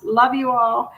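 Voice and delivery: usual speaking voice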